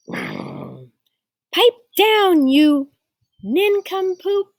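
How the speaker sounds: loud, high scolding yell. A narrator's reading. Carmen telling off the noisy mockingbird, yelling. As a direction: yell an insult at a pesky bird. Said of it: "she yells to that bird".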